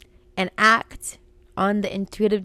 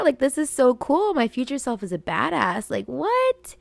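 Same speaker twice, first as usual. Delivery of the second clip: retold excitement; 4 semitones higher than usual. Thrilled playing the guitar.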